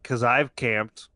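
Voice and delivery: slow, understated retort; retold deadpan dad. Son quoting his dad on why they don't camp, slow deadpan. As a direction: imitate a dad's weighty answer, slowly. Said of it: "he looked me dead in the eye".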